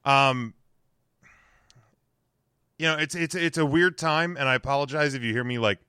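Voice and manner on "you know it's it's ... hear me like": talking while chewing gum; words round a piece of gum. Real, not acted. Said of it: "I have a piece of gum in my mouth".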